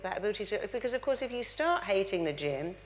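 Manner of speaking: ordinary talk, nothing marked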